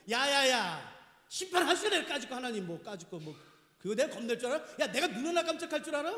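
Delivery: cocky imitation of a scoffer; mock defiance. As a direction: brush off judgment with acted bravado. Acts a scoffer daring God to judge.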